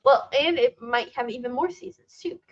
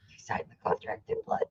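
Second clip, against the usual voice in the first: high, soft, quick little threat; mock-ominous hush; 8 semitones higher, 10 dB quieter, faster than usual. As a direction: say it small and high, playfully sinister. Mock quarrel, eerie repeat of threat.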